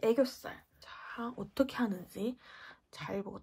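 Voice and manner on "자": normal talking voice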